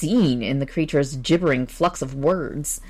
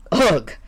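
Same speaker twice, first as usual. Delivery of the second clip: a short grunt of disgust; 4 dB louder than usual. Acted. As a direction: push out a grunt of contempt. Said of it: "grunted Gu-, Waldemar".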